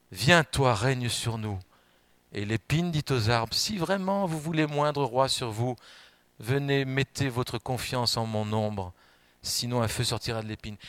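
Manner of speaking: measured, even reading of the parable; preacher reading Jotham's parable aloud to the church, measured and solemn; solemn scripture reading. Acted.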